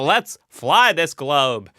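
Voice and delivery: loud, slow, hammed-up aviator accent; Amelia Earhart's imagined accent. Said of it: "what I assume her accent sounds like".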